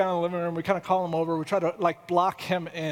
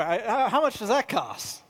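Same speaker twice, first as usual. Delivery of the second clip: half-laughing question; chuckling as he asks the price again; laughing retake; 3 semitones higher than usual. Retold or imitated. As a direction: repeat it through a laugh. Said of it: "so anyway".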